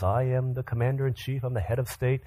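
measured, mildly official recitation; lightly voiced presidential speech; formal address. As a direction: recite it like an official statement of duties. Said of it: "in his formal address says".

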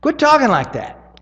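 high, loud scold. Retold or imitated. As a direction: tell him off sharply. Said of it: "he scolds Jesus".

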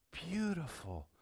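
slow whispered wonder; whispered awe. Acted. Pastor to congregation, slow hushed wonder. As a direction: breathe it out in awe. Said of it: "savoring the phrase".

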